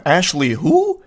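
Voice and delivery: mock innocent ashley who; playing dumb. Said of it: "acting like he's been hit by the orb of confusion".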